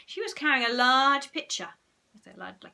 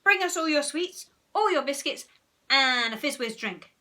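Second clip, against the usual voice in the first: loud bossy order, higher; Henry ordering Margaret to fetch sweets; commanding; 4 semitones higher, 5 dB louder than usual. Acted. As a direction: bark orders at a hypnotised slave.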